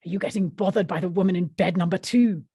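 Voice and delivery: protective Glaswegian woman, lightly acted; Glaswegian accent. Marion checking on young Barbara, Glaswegian accent. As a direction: question it in put-on Glasgow tones. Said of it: "Marion MacDonald was the Glaswegian".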